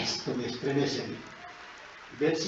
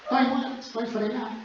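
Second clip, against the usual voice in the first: mock cry; 8 semitones higher than usual. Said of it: "¿Y saben qué gritó?".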